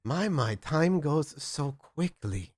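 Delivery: put-on high, slow German accent; Gustav. Sire reminisces with Max, slow high German accent. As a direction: muse theatrically in a bad German accent. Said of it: "in a horrible German accent".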